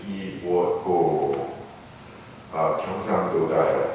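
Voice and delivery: 한국어로 "이 무엇고"를 마지막 음절을 길게; Korean phrase. Shown as a demonstration. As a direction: say "이 무엇고" in Korean as three syllables, stretching the last one. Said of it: "in the original Korean".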